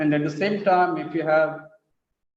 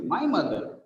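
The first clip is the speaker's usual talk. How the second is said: "my" peaks, then the pitch falls; stress on MY; 4 dB quieter than usual. Shown as a demonstration. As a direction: insist on "my". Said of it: "not somebody's".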